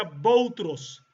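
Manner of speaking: Boutros as the Arabic form of Pedro; Arabic pronunciation. Shown as a demonstration. Lecturer listing Pedro in other languages, Arabic pronunciation Boutros. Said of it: "en árabe se pronuncia".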